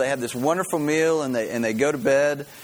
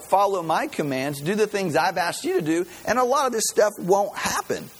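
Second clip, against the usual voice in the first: higher-pitched, lightly exasperated reproach; mild acted exasperation; 5 semitones higher than usual. God telling Israel it's their fault, mildly exasperated. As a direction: spell it out as an imagined, exasperated God.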